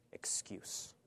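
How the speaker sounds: a breathy, dropped whisper. Acted. Preacher whispering the verdict to the congregation. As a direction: breathe the last word out. Sermon climax word whispered.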